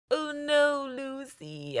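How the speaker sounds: hammed-up tearful lament; mock crying. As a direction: imitate a weepy, self-pitying wail. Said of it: "he's crying so much".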